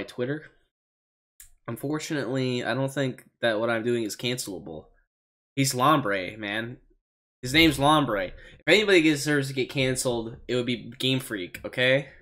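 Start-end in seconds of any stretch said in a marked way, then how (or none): 5.6-12.1 loose, easygoing surfer-dude delivery; laid-back dude voice. Acted. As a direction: play it like a chill slacker. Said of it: "That's how Lombre probably talks".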